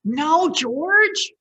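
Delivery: high, loud no; exasperated mother. Acted. Mother stopping George, high and loud. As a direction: cut him off, exasperated. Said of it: "said George's mother".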